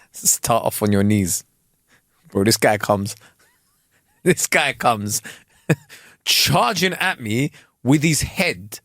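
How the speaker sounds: slow, laughing retelling; can't stop laughing while telling it; words broken by laughter, slowly; laughing through it. Real, not acted. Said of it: "laughing while telling".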